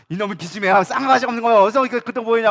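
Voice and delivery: lightly acted angry parent; mock scolding. Mother rebuking her insolent daughter, scolding.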